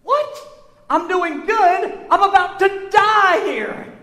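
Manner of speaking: high, slow, incredulous reply; mock disbelief. Answering the nurse after lung surgery, hammed-up disbelief. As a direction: play up the shock of being told you're fine.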